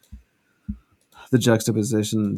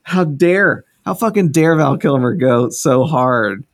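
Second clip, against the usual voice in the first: rising, louder disbelief about Val Kilmer; excited rant; 4 semitones higher, 3 dB louder than usual. Real, not acted. Ranting to friends about Val Kilmer's accent, loud and delighted. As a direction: gush in outraged delight.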